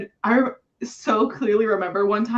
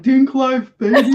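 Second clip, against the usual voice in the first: cocky cheer; 4 semitones higher, 10 dB louder than usual. Retold or imitated. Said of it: "He's like".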